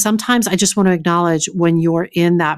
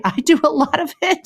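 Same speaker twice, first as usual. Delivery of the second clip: laughing; 9 semitones higher than usual. Real, not acted.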